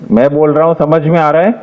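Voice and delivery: open-mouthed, intelligible delivery; clear, unhurried speech. Shown as a demonstration. Judge showing students how to be understood, clear speech. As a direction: say it clearly, each word distinct. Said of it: "क्योंकि मैं धीरे-धीरे बोल रहा हूं".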